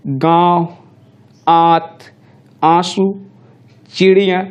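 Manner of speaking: "गाँव", "आंसू", "चिड़िया" said slowly with the vowels voiced through nose and mouth together; nasalized vowels. Shown as a demonstration. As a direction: give "गाँव" and "आंसू" a clear chandrabindu nasal vowel, word by word. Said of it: "तो ये ऐसे बोलना है इसका". ("गाँव", "आंसू" को नाक और मुँह दोनों से, अलग-अलग शब्द बोलें)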